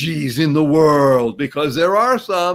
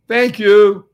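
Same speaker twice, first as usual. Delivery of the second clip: "thank you" called out high and loud; 5 semitones higher, 8 dB louder than usual. Shown as a demonstration. Host proclaiming the two words to his audience, loud. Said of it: "these two words are".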